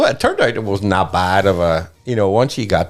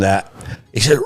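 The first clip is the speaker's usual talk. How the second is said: ordinary delivery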